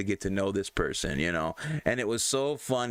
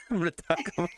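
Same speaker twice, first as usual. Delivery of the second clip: laughing; 4 semitones higher, faster than usual. Real, not acted. Laughs through the words.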